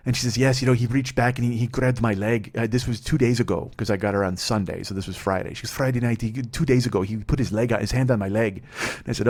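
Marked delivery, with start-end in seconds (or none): 0.4-2.5 lightly imitated Mexican accent; heavy Mexican accent. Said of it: "she had a really heavy accent". 5.7-8.6 imitated Mexican accent, little pitch change; heavy Mexican accent. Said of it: "she had a really heavy accent".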